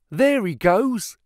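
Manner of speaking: high, slow excited cry of recognition. Acted. Clerk spotting the man in the street, excited cry. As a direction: call out as you spot him. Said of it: "cried Hall Pycroft".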